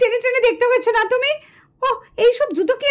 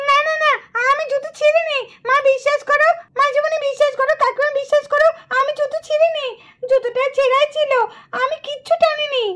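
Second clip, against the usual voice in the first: put-on pleading girl; 3 semitones higher than usual. Accused girl pleads innocence.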